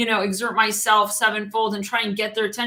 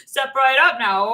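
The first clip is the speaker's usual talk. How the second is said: announcer call; 5 semitones higher, 5 dB louder than usual. Retold or imitated. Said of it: "everyone's like".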